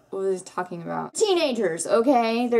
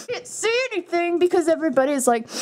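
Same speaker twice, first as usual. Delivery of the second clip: mock exasperated; 9 semitones higher, 4 dB louder, faster than usual. Mocking the tight movie crops.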